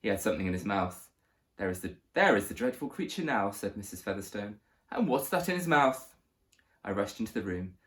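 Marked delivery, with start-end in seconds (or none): 1.6-3.5 lightly voiced posh lady, disgusted; a hint of a haughty posh woman. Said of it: "spoke in a posh voice". 4.9-6.1 high, posh lady, alarmed; a haughty posh woman, much higher. Acted. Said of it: "spoke in a posh voice".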